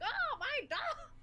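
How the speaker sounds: high, slow wail for the dog; hammed-up despair over a lost dog; mock anguished cry. Retelling a cartoon, blind man's drawn-out wail for his dog.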